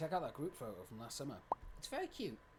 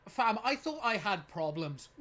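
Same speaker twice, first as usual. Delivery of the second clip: slow, louder ironic scoff; mocking past self; 4 semitones higher, 6 dB louder, slower than usual. Looking back on teen drama, with a slow ironic scoff. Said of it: "I look back on it and I'm like".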